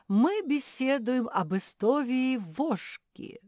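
loud lecturing professor with r and l swapped for v; speech-impaired professor. A narrator's reading. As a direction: play the muddled academic, v for every r and l.

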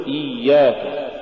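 إياك with a smooth doubled y; iy-yak, unbroken glide in إياك; soft flowing ya. Shown as a demonstration. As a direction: let the y run in إياك. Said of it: "قل".

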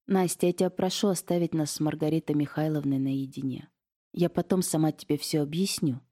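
ordinary delivery

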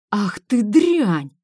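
slow, loud contemptuous snarl; furious husband. Acted. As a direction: spit it out in slow rage. Husband slaps wife in rage.

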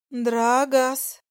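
calling out. Acted. Dragoness calling his name.

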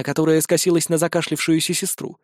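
plain reading voice

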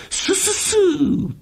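very high slow goose hiss; hissing geese. Acted.

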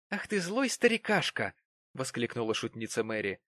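mock-scare the suitor playfully; teasing Mary. A narrator's reading. Mary mockingly chases Jonas off, high and playful.

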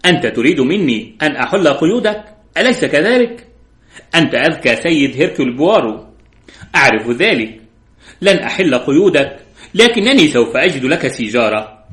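a light mocking laugh in the voice, the tag question jumping up; amused taunting of a tied-up captive; lightly voiced scornful amusement; laughing mockingly. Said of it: "ضحكت وقالت".

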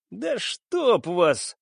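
annoyed curse. Acted. Pirate boss hears bad news.

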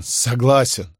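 the word swallowed by a sob; stifled sob. A narrator's reading. Shopkeeper repeats his surrender to Crassus, choked sob. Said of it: "мужчина сдавленно всхлипнул".

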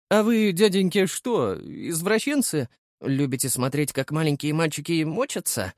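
a brat taunting grown men; cheeky boy. A narrator's reading. Boy mocks the thugs chasing him, lightly voiced cheeky kid.

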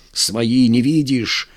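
gasping, hoarse and out of breath; wind knocked out. Acted. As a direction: rasp it out, winded. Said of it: "задыхаясь, прохрипел один из них". (задыхаясь, с хрипом)

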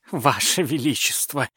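lightly voiced butler begging; pleading butler. A narrator's reading. Butler pleads with the tsar, a mild fawning plea. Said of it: "взмолился прохиндей".

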